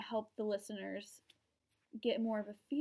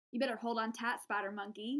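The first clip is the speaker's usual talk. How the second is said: put-on light Southern US accent for a movie quote; 4 dB quieter than usual. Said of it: "if I had to impersonate someone from Twilight".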